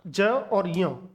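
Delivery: ज और य drawn out very slowly; teacher sounding out the letters slowly; slow demonstration. Shown as a demonstration. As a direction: spell out ज और य slowly for the class. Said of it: "दो वर्णों से मिलकर के बनता".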